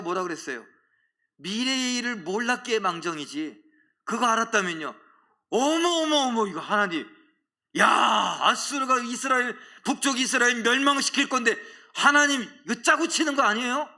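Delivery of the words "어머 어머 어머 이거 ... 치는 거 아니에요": high, loud, indignant protest; angry outburst. Retold or imitated. Jonah angrily accusing God of a rigged deal, high and loud. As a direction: blurt it out like a man who feels betrayed. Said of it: "막 이렇게 막 화를 내".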